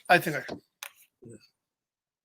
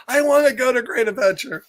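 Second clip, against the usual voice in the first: imitating Piggy's tantrum; 4 semitones higher, faster than usual. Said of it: "you might look like Piggy there".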